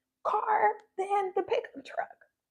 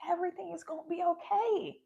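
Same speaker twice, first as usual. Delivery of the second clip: gentle reassurance; 3 semitones lower, 6 dB quieter than usual. Retold or imitated. God reassuring a troubled believer, lower and much softer. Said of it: "That was God reassuring me".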